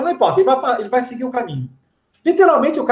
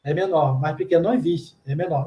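lower, softer know-it-all correction; correcting Brazilian; 4 semitones lower, 4 dB quieter than usual. Retold or imitated. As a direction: correct them with smug certainty. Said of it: "ficar falando". (brasileiro corrigindo, mais grave e baixo)

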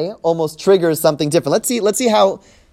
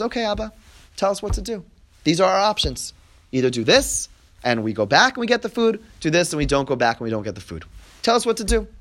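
softer, coaxing son to father; soft reassuring voice to a worried father; gentle plea; 5 dB quieter than usual. Retold or imitated. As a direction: calmly lay the options before Abba. Yehuda gently addressing father.

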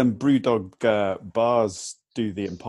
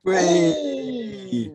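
excited whoop; 13 semitones higher than usual. Real, not acted. Cheers at the Stella order.

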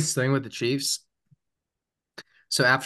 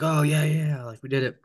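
mildly hyped-up mock celebration, a bit higher at first; retold hype; 4 semitones higher than usual. Player celebrating after they win, mildly hyped up. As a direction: lightly imitate a pumped-up winner. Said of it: "all hyped up".

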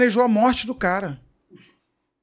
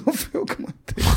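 laughing; 6 semitones higher, 7 dB quieter than usual. Real, not acted. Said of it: "Não tô rindo da morte dele".

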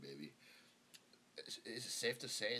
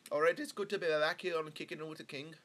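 attempted British accent; 7 semitones higher, 9 dB louder than usual. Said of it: "trying to do a fucking British accent".

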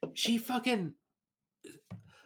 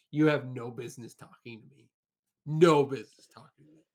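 telling off mother. Retold or imitated.

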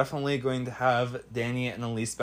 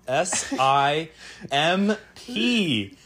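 teasing; 2 semitones higher, much slower than usual. Real, not acted. Teasing spelled out slowly.

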